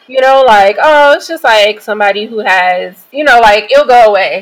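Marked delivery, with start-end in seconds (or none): 0.8-2.9 dismissive. Retold or imitated. People ignoring her health disclosure, mildly dismissive. 3.7-4.4 imitated brush-off, a bit louder; dismissive. People ignoring her health problem, mock dismissive.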